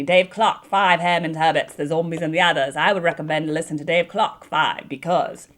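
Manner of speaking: a hint of Cockney; Cockney accent. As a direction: read it as a Cockney. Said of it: "maybe it's a little more Cockney".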